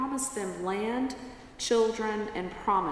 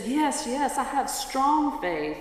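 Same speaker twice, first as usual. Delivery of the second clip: higher, insistent acted yes; desperate eagerness; 5 semitones higher than usual. Dangling tourist assures the calm voice of faith, desperate eagerness.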